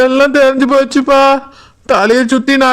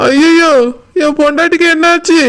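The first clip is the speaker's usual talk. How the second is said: higher, alarmed wail; 3 semitones higher than usual. Acted. Drunk husband hearing his wife fell in well, alarmed wail. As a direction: cry out in sudden fear. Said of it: "நடிக்கிறீங்களா".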